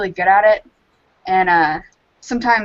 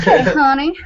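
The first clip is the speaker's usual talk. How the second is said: high, louder Southern belle greeting; 6 semitones higher, 5 dB louder than usual. Shown as a demonstration. Mocking how belles talk to you, high Southern belle voice. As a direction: put on a sugary mock Southern belle. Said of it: "Yeah, like that".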